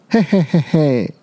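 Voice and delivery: villain's 'hei-hei-hei' laugh; gloating chuckle. A narrator's reading. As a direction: chuckle over the meal ahead. Tyrannosaur gloats about prey. (霸王龙得意坏笑)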